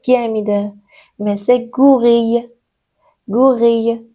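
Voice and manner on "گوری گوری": گوری said as French gorille, final L silent; گوری slowly, ending on the vowel with no L sound; French word demo. Shown as a demonstration. Teacher shows students French gorille, گوری with silent L. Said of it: "ال آخرش تلفظ نمیشه".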